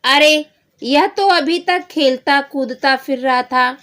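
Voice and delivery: a puzzled dad who saw him playing a moment ago; surprised father. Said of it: "अब उसके पिताजी बोलते हैं". (हैरान पिता की ऊँची आवाज़)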